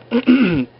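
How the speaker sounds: mock throat clear; pointed throat clearing. Jack awkwardly checks on her, a mock throat clear. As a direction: clear the throat as if playing a character.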